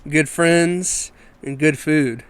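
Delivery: slow, punchy sponsor read. Real, not acted. Host reading a bar sponsor to listeners, slow ad read. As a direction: pitch the bar one measured phrase at a time. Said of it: "first ad read here".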